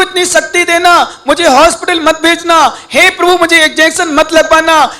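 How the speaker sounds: lightly acted supplication; imploring prayer. Acted deathbed prayer to God.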